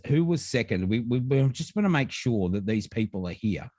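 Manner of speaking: normal talking voice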